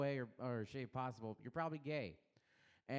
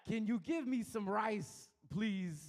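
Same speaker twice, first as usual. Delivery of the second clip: Walken with mock Asian accent; 5 semitones higher than usual. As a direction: ask for rice in a crude Walken-Asian mix. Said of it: "go Asian with Christopher Walken".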